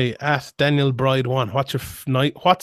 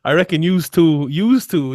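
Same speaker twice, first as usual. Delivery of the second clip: put-on Dublin accent; 4 semitones higher, 6 dB louder than usual. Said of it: "Do you like my Dublin accent there?".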